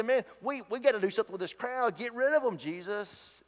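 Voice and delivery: high, urgent mock plea from the disciples; hungry disciples. Preacher voicing disciples urging Jesus to send crowd away, high and pressing.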